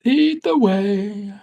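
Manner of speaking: big, loud, slow dwarf boom; dwarf character voice. Acted. Dwarf Balgrim tells the party to lead on, booming slow.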